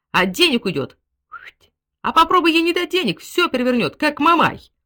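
high, loud exasperated outburst; exasperated rant. A narrator's reading. General rants alone about wife wasting money, loud exasperation. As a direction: rage at wife's extravagance.

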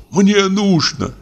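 high, slow, quavering plea; trembling voice. A narrator's reading. Imprisoned doctor begging the guard, trembling. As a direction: beg the guard with a shaking voice.

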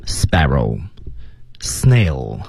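breathy whisper of sparrow; whispered keyword. Shown as a demonstration. Teacher whispers the keyword sparrow to the class, whispered. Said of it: "核心的关键词呢是".

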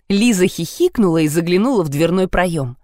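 ordinary delivery, nothing marked

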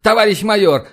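loud, high call to officer. A narrator's reading. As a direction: sing out the rank loudly. Captain calls out to major.

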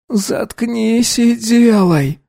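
put-on a girl growls shut up; growled. A narrator's reading. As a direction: bark it at him. Girl voiced.

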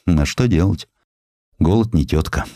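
ordinary delivery

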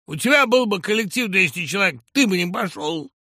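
high, loud furious tirade; screaming down his screenwriter, high and loud; thug's hysterics. Acted. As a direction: rant at him like a hysterical boss. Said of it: "Сазонов заводился надолго".

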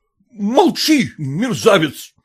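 drawn-out, high "shut up", dropping on the insult; indignant husband shouting; angry shout. A narrator's reading. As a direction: shout him down. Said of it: "крикнул муж".

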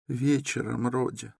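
high, soft anxious mother; a worried mother answering her son gently; high mother's voice. A narrator's reading. Mother tells her son when they arrived, high and soft.

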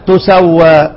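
تسوى with a u on the ta, tusawwa; reading demo. Shown as a demonstration. Teacher giving the class the third reading of تسوى. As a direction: say تسوى as tusawwa, starting on a dammah. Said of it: "كام قراءة في هذه الكلمة".

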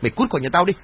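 a ringing shouted get out; furious order to leave. A narrator's reading. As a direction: throw her out with a yell. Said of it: "Chín hất tay mụ Trang".

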